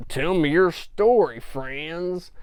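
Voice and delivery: high, slow smarmy voice; oily and overfriendly; sleazy pilot. Retold or imitated. Reviewer voicing shady pilot Frack, high slow smarmy tone.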